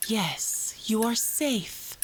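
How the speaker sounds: slow, hushed, drifting into a whisper; hypnotic induction. Acted. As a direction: lull the patient under with your voice. Therapist continues hypnosis.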